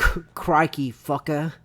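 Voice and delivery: Australian accent. Shown as a demonstration. Practising for the quote in an Australian accent. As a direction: try it with an Aussie twang. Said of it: "Do that Australian accent real quick".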